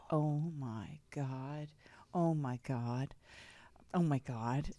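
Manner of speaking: low, hushed oh-my-God; hushed retold dread. Telling how the closet door hit the suitcase, hushed dread. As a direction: let the dread sink in, low and quiet.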